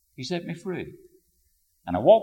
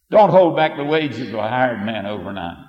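amused re-read; 9 dB louder than usual. Shown as a demonstration. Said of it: "Isn't that interesting?".

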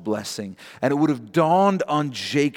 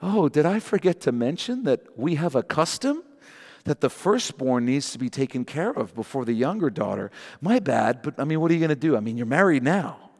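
sarcastic. Acted. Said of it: "says sarcastically".

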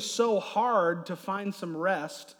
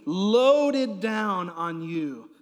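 heavy and loud; 6 dB louder, much slower than usual. Acted. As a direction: drag loaded down out slowly and loudly. Pastor loading down volunteer.

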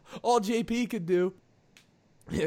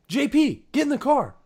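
higher-pitched, raised call; retold yell; 8 semitones higher, 4 dB louder than usual. Driver ordering drunk friend back into the car, retold yell. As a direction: call him back, exasperated. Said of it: "five of us yelling at him".

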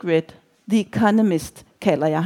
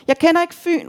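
much higher, lightly shouted denial; shouting; 9 semitones higher than usual. A narrator's reading. Reveller to the woman from Fyn, shouting. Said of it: "råber jeg og ryster på hovedet".

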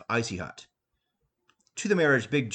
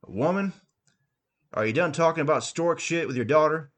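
yelling; 5 semitones higher than usual. Acted. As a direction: bellow up to her like a blustering husband. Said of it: "Before yelling".

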